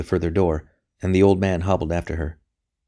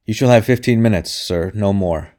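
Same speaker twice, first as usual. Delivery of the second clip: harsh cry; 2 semitones higher, 5 dB louder than usual. A narrator's reading. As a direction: lay down the limit harshly. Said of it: "he cried harshly".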